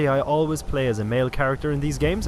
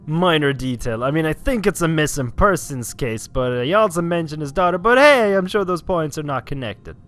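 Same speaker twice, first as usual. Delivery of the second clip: mocking imitation. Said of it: "you just thought".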